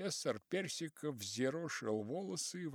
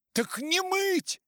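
very high, drawn-out loud call; shouting phone caller; 10 dB louder, slower than usual. A narrator's reading. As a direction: shout back down a bad line.

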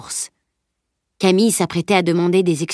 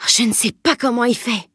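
raised, marvelling voice; amazed exclamation; 4 semitones higher than usual. A narrator's reading. Boy marvelling at a pickpocket's skill, exclaiming. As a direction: marvel at it, pitched a little high. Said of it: "s'exclama Salim".

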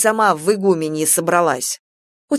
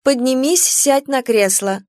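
higher, bossy wife; wife's voice; 6 semitones higher than usual. Acted. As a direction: order him about, higher. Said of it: "Супруга". (голос супруги, повыше)

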